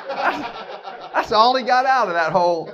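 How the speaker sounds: talking through a laugh; amused, laughing while speaking. Real, not acted. Amused after son's joke.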